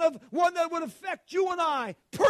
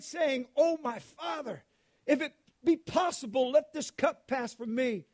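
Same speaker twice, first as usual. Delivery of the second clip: scripture reading. Acted. Preacher reading Gethsemane scripture to the church, solemn. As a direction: read it to the congregation with weight.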